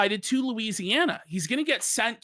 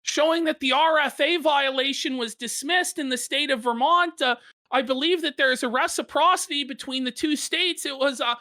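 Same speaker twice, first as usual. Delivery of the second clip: quoting Tarl; 5 semitones higher, faster than usual. Retold or imitated. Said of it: "So Taro goes".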